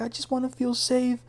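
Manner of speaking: high, plaintive imitation of crying; mock crying. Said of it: "And she's crying".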